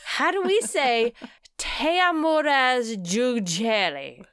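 high, hesitant quoted question; asking question. Retold or imitated. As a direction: ask high with a laugh on Teamoras Jujeli. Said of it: "the first question we should ask him".

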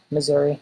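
Missouri ending in a clear "ee"; own pronunciation. Shown as a demonstration. Local showing the host how he says it, Missouri with final "ee". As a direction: say Missouri as "Mizzur-ee". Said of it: "That's the way I say it".

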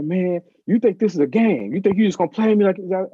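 retold anger. Mentor scolding a student who faked reading, mildly angry. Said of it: "and then he got angry".

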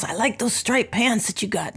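lightly voiced old jazzman imitation; a hint of another man's talk; John Nelson. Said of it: "They both kinda talk like this".

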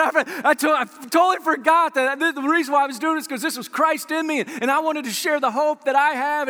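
animated, tumbling retelling; retold excitement. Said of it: "he was so excited".

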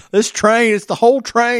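high, loud mock echo of Chris, half laughing. Teasing his co-host over his train theory, high and laughing.

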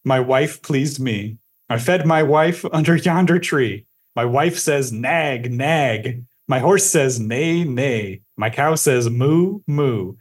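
measured sing-song nursery verse reading; poem recitation. Acted. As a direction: recite it line by line in a lilting rhythm. Reads the final verse aloud.

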